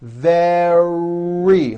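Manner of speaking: very with lips forward and a strong R; strong middle R. Shown as a demonstration. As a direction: push out the R in very. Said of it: "like that".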